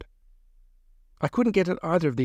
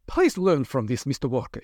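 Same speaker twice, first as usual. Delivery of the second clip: breathless. Acted. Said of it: "she said breathlessly".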